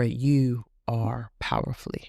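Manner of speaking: whispered. Real, not acted. Closing affirmation to listener.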